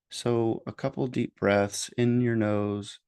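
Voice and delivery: unhurried meditation guidance with long pauses; guided meditation. Real, not acted. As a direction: gently lead listeners through breathing and noticing.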